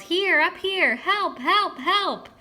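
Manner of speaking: very high, loud cries for help; screaming for help. A narrator's reading. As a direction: scream for help with all his lungs. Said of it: "I screamed my lungs out".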